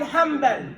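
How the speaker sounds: "Hanbal" said as ham-bal, m before the b; n turned to m. Shown as a demonstration. Teacher models Ahmad ibn Hanbal's name, "Hanbal" with m for n. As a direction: turn the n in "Hanbal" into an m. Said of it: "We don't say Hanbal".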